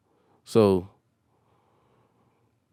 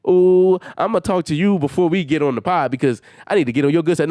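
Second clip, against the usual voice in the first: mocking impression; 4 semitones higher than usual. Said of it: "They be trying to talk".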